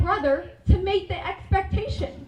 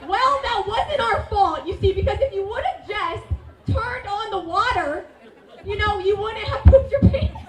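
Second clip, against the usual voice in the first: higher, slowed, giggling excuse; laughing through it; 5 semitones higher, 4 dB louder than usual. Retold or imitated. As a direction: try to justify it while cracking up. Sisters defending themselves laughing.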